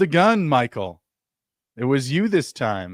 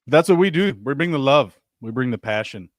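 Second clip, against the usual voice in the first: lightly put-on anchorman bravado; a touch of pompous showman; Ron Burgundy; 2 semitones higher, 3 dB louder than usual. Hyping the stream's love and passion, mild Ron Burgundy impression. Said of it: "You sound like Ron Burgundy when you said it like that".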